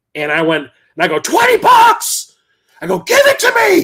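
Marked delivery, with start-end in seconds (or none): 1.1-3.8 put-on very high, excited shriek at full lungs. Retelling own reaction to a cheap game price: imitating own scream. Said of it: "screamed at the top of my lungs".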